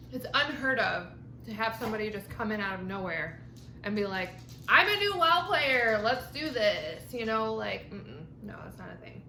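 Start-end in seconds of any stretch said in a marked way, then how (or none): 4.7-7.1 eager newbie voice. Retold or imitated. Mimicking a cocky newcomer.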